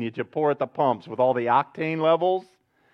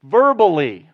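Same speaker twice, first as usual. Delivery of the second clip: emphatic repeat; 3 semitones higher, 6 dB louder than usual. Acted.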